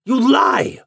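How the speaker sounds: high, loud, strangled accusation; shouted, half-stifled outburst; half-stifled cry. A narrator's reading. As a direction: cry it out through choked fury. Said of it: "cried the other in a half-stifled voice".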